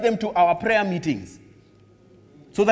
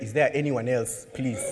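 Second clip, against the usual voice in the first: soft, hopeless plea for someone else; pleading aside; 6 semitones lower, 5 dB quieter than usual. Retold or imitated. Joshua begging God quietly for another choice. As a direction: ask quietly if anyone else can go. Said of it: "I'd be like".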